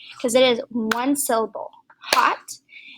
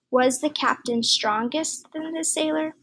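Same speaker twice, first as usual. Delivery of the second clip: trying out the wrong form; 4 semitones higher than usual. Shown as a demonstration. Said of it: "That doesn't really sound right".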